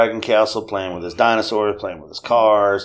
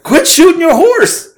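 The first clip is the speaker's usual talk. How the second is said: high, loud and slow mock scolding; exasperated wife; 7 dB louder, slower than usual. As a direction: drag out the scolding, half laughing. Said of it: "My wife's like".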